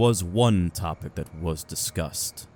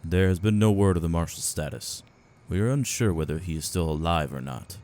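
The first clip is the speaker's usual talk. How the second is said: measured answer with a touch of hesitation; careful, calculating reply, lightly held back; hesitant, calculating; 4 semitones higher than usual. A narrator's reading. Spymaster tells veteran of the missing marshal, hesitant and calculating. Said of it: "hold some hesitation in his words as he forces them out in a calculating tone".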